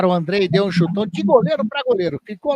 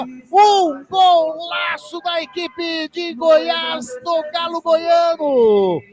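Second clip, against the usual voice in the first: explosive goal commentary; 6 semitones higher, much slower than usual. Real, not acted. Drawn-out goal celebration.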